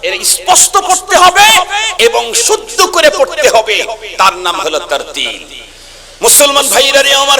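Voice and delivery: high, loud sermon cry, stretching the words; fervent preaching. Acted. Preaching at full force. (উচ্চস্বরে আবেগময় ওয়াজ)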